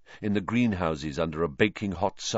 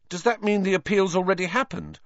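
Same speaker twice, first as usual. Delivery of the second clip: lightly voiced Ron; 10 semitones higher than usual. A narrator's reading. Ron interrupting.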